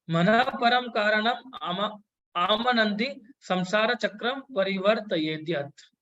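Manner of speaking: slow, measured Sanskrit chanting; slow verse recitation. Acted. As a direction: intone the verse slowly, word by word.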